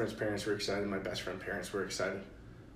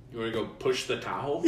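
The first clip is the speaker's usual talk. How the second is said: mild mock invitation, close to usual voice; retold dad's offer. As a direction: lightly imitate a dad proposing an outing.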